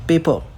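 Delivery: पेपर as "pey-pa", no r at the end; silent r. Shown as a demonstration. Teacher contrasting American usage, पेपर with silent r. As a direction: leave the r off पेपर. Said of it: "ये आर जो है American accent में silent".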